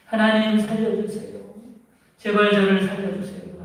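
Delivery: man clinging to a branch pleading with God; desperate prayer. Retold or imitated. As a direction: beg for your life, voice up. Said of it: "간절히 기도하죠".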